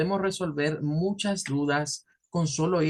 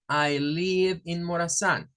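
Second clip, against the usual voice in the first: slow model sentence; 2 semitones higher, slower than usual. Shown as a demonstration. Teacher models example sentence slowly.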